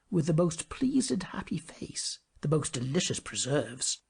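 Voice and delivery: usual speaking voice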